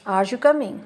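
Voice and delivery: "Are you coming" with a lift on "coming"; question intonation. Shown as a demonstration. Teacher showing question intonation, lifted question tone. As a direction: ask it, pitch up into "coming". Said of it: "rising intonation".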